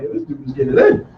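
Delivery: high, breathy hype about a player; impressed college kid watching a coach's team; amazed reaction. Retold or imitated. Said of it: "I'm like".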